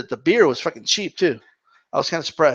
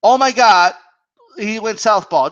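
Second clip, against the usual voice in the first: excited call; 4 semitones higher, 4 dB louder than usual. Shown as a demonstration. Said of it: "just say".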